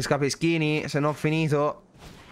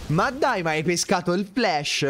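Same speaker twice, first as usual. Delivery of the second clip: outraged disbelief; 5 semitones higher than usual. Real, not acted. Opponent draws the key card.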